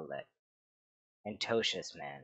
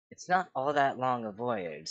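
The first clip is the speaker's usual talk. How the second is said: angry; 2 semitones higher, 5 dB louder than usual. Acted. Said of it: "said one of the gray cloaks angrily".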